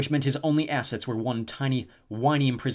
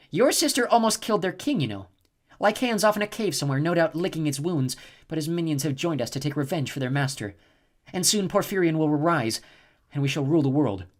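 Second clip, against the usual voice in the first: higher, gloating villainess voice; a cruel goddess savouring her plan; cold snow goddess; 5 semitones higher, 4 dB louder than usual. A narrator's reading. Snow goddess taunting Jason, higher gloating voice.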